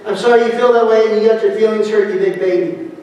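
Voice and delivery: sarcastic apology. Shown as a demonstration. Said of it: "it's almost like we're saying".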